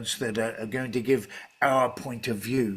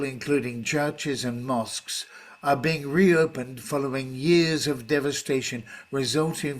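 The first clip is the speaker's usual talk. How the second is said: news reading with stress. Shown as a demonstration. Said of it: "if I just read the first paragraph".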